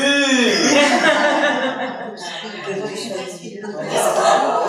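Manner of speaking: long hearty laugh; real laughter, drawn out. Real, not acted. Rabbi laughing at his own joke to the class, hearty laugh.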